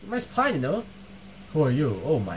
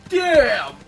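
loud, sharp shocked cry; startled shout; 6 semitones higher, 6 dB louder than usual. Real, not acted. Gamer shocked by a shooting, loud startled shout. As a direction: blurt it out in shock.

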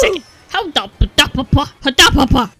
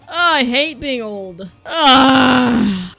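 mock whine; 6 dB louder, much slower than usual. Mock lament about age.

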